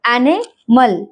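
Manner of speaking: एनिमल slowly as a-nə-məl; slow, broken-up एनिमल with a schwa for the I; syllable by syllable. Shown as a demonstration. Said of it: "आई की sound अह". (एनिमल धीरे-धीरे तोड़कर, शवा के साथ)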